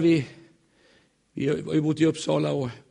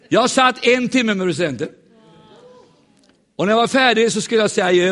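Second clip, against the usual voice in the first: higher, louder proud declaration; triumphant; 7 semitones higher, 6 dB louder than usual. Real, not acted. Preacher boasts to congregation of hour with president, triumphant. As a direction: proclaim it like a victory.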